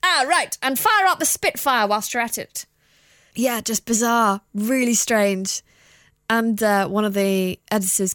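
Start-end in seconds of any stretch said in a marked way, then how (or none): 0.0-2.7 a hint of a plummy RAF pilot; lightly mock a posh British pilot; half-hearted posh pilot voice. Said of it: "a posh pilot".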